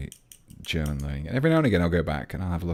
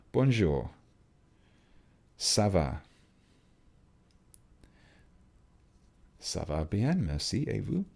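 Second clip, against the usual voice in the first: put-on schoolboy French with a British accent; 2 semitones higher, slower than usual. Streamer greets French viewer in British-accented French. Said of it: "Definitely sound like a British person speaking French there".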